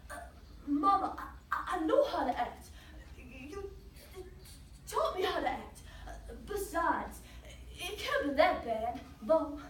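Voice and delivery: put-on halting boy, repeating first words; stuttering reassurance. Son telling Mama he knows how to act, stuttering. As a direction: stumble through reassuring mother. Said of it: "had a problem talking".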